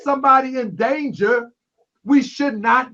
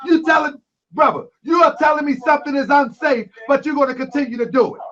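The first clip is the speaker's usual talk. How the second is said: heated, raised voice at the caller; 2 semitones higher than usual. Real, not acted. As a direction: push it, get worked up. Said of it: "I apologize if I raise my voice".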